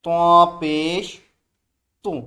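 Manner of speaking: slow, loud drilled syllable; teacher's loud slow recitation. Shown as a demonstration. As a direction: call it out loud for the class. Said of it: "ज़ोर से बोलें".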